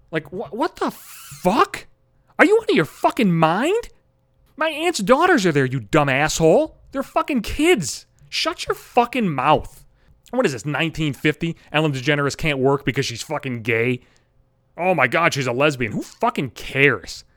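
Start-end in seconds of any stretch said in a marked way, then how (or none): 0.1-11.6 high, loud, incredulous yelling; slowed, furious rant, much higher; outraged. Real, not acted. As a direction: blow up in disbelief.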